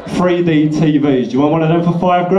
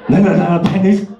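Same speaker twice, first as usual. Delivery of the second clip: zombie begging; 4 semitones higher than usual. Retold or imitated. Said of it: "sitting in the hedge like".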